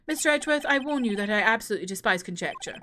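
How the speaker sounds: put-on a light posh English accent for the judge; stern judge, lightly posh English. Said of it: "keep him sounding posh English".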